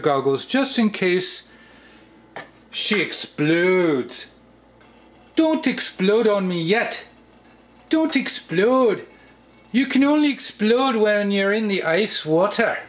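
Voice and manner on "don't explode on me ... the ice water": coaxing pet voice. Pretend. Vlogger pleading with the saucepan not to explode, mild coaxing voice. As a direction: sweet-talk the saucepan not to blow up yet. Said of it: "I don't know why I talk like this".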